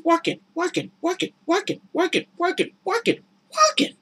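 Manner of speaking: high singsong chant of working; mock weary repetition. Women working endlessly, high mock chant. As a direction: drone it over and over. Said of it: "repeating working".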